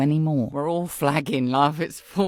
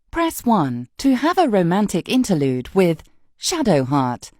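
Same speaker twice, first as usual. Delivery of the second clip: automated options announcement; measured hotline recording; mock phone menu; 3 dB louder than usual. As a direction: read it like a recorded menu, key words punched.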